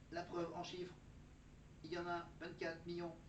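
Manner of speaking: measured AI assistant voice; robot voice. Pretend. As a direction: recite like ChatGPT. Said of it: "J'adore faire la voix de robot de chat G P T".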